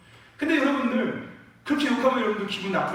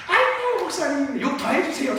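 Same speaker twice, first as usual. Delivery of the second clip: higher, happy pleading plea; gleeful begging; 7 semitones higher than usual. Retold or imitated. Congregant begging the pastor for more scolding, gleeful plea. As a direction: beg for more like a glad churchgoer.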